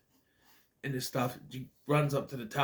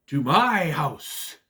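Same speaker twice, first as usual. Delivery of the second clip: mock witch; 4 dB louder, much slower than usual. Echoes the witch line.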